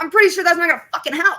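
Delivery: high, loud, rushed retort breaking into laughter; laughing incredulity. Retold or imitated. Patient doubting physical therapy, laughing incredulous retort.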